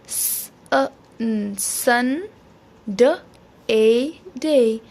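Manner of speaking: स, अ, न, सन, then ड, ए, डे, each held apart; phonics sounding out. Shown as a demonstration. Teacher models Sunday for children, one sound at a time. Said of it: "बच्चों को फोनिक्स के ज़रिए".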